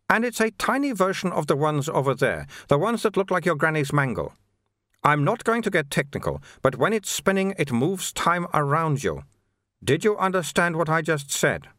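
explaining monk. Acted. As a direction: lightly play a monk simplifying for a layman. Narrator voices Sweeper the monk.

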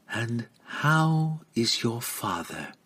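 slow, courteous inquiry; polite. A narrator's reading. Lady asking after the visitor's father, polite. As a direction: ask lightly and unhurriedly. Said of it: "she asked politely".

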